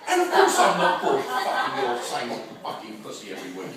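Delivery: acted fed-up drop in pitch; mock-bored boyfriend. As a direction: sink low into weary resentment. Boyfriend's true feeling slips out.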